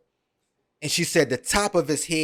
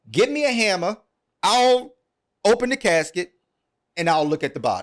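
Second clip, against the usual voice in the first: higher-pitched, insistent retelling of a mother; determined demand; 5 semitones higher than usual. Retold or imitated. Mother demanding to see her son's body, higher-pitched and insistent. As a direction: make a firm demand as the mother, pitch raised.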